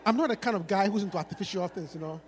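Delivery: low, soft, mock seductive lines; smooth-talking rapper.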